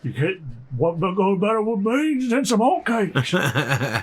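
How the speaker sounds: slow lightly gruff cowboy; drawn-out outlaw drawl; Arthur voice. Acted. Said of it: "I think I've got an Arthur impression down".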